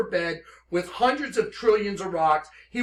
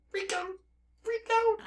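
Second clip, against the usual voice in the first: soft freak out; 6 dB quieter than usual. Real, not acted. Startled by dictionary meaning.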